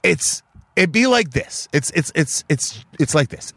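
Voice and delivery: slow, measured exasperation; frustrated explaining. Retold or imitated. Explaining to his wife, slow and frustrated. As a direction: spell it out slowly, fed up. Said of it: "And I'm getting frustrated".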